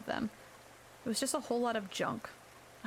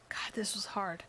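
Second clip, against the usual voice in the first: hushed whispered thought; whispering; 2 semitones lower, 3 dB quieter, slower than usual. A narrator's reading. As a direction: breathe it out as a whisper. Inner thought, struggling.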